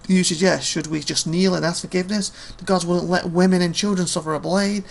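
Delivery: a hint of a mocking old warrior; scolding veteran. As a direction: sneer at the boy like a grizzled veteran. Old soldier scolds the whelp.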